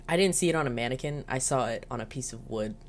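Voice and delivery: fast, breaking into laughter; laughing. Real, not acted. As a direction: let the laugh take over the punchline. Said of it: "without laughing".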